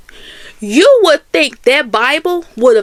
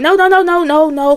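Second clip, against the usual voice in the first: hurried calming no; 4 semitones higher than usual. Retold or imitated. Fireman calming panicked teller.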